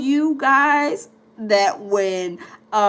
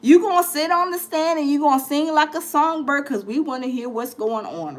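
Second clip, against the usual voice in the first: teasing feds; 2 semitones higher than usual. Retold or imitated. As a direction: lure the witness in like a smug fed. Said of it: "The feds is like".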